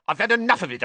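high, loud exasperated outburst; angry shout. A narrator's reading. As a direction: shout it at the end of your patience. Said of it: "he shouted".

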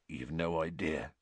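soft, hushed and heavy; barely above a breath of sorrow; quiet. A narrator's reading. Giant telling his friends about prison, quietly. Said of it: "said Hagrid quietly".

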